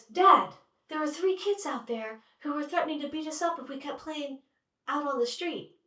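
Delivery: put-on a small girl running to tell on them; tattling little girl. Sunshine telling dad about the threatening kids, high tattling child.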